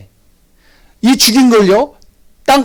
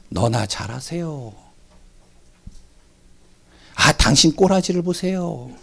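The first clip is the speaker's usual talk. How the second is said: mild sneering retort; 6 dB quieter than usual. Retold or imitated. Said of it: "얘기하지 않아요?".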